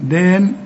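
"دان" with a light d and an evenly held long a; natural lengthening. Shown as a demonstration. Teacher shows the natural madd, light long vowel. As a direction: keep "دان" thin, vowel gently lengthened. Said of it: "تتعلم الدال والمد الطبيعي".

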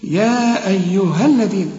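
"الذين" with the tongue between the teeth on ذ; slow recitation, long "يا", clear interdental in "الذين"; tongue-out dhal. Shown as a demonstration. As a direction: recite "يا أيها الذين" slowly and precisely. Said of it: "طلع لسانك بقى في الذال".

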